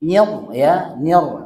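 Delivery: "Nyir" with one short tap of the r; single tap r. Shown as a demonstration. Teacher correcting a student's rolled r, one tap. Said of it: "Jadi hanya satu getaran".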